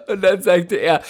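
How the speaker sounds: lachend weitererzählen, höher. Real, not acted. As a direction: lach noch beim Sprechen. Lacht noch beim Weitererzählen. (Freund erzählt noch lachend weiter)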